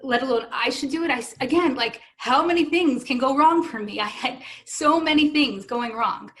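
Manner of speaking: overwhelmed, emphatic objection, mildly acted; losing it. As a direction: protest in rising disbelief. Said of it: "And I lost it".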